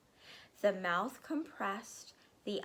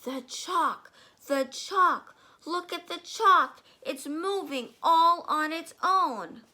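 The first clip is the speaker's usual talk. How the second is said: building from loud to a shrill, much higher shriek; hysterical scream; 8 semitones higher, 9 dB louder than usual. Acted. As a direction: panic louder with each cry.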